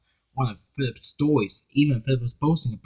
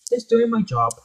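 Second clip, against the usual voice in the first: modest smile; 10 semitones higher than usual. Acted. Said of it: "Philip smiled".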